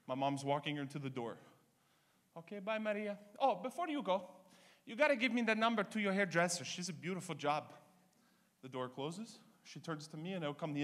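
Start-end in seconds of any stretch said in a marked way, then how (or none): 2.3-7.7 mother's fake sweetness. Mother voiced saying goodbye.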